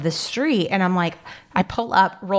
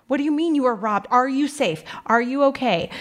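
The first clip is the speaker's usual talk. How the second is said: retold alarm; 6 semitones higher than usual. Retold alarmed reply to robbed mother.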